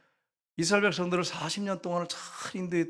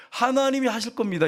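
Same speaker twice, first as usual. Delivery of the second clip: humble; 8 semitones higher, 3 dB louder than usual. Retold or imitated. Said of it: "이러면 가능하지".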